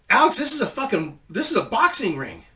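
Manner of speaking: high, loud complaint that settles by the end; retold outburst of disbelief; exasperated outburst. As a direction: shout the news at your partner mid-match. Complaining about stiff ring.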